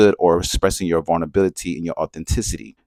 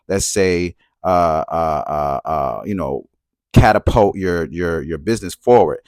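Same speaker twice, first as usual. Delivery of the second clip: lots of ums and uhs; 2 semitones lower than usual. Real, not acted. Searching for a word mid-sentence.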